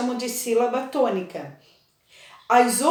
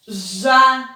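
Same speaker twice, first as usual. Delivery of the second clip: janela broken into ja, né, la with né strong; syllable-by-syllable stress; 4 dB louder, slower than usual. Shown as a demonstration. Teacher breaking janela into syllables for pupils, stressing né. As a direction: sound out janela slowly, punching né. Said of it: "O né é a sílaba mais forte".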